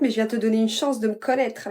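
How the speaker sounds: ordinary delivery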